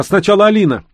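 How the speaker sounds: high, loud mother's plea; crying out. A narrator's reading. Mother insists her daughter goes first, crying out. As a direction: call out insistently. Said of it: "крикнула она".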